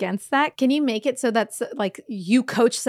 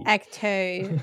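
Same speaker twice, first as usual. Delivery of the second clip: Australian ecto. Retold or imitated. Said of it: "imitating Australian actor".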